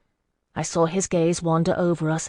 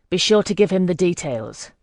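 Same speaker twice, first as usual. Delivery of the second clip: the details given weight, a touch louder; stress on the details; 3 dB louder than usual. Acted. Scout leader ordering his rider, leaning on the details. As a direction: lean on the details as a hidden order. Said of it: "He stressed the last words".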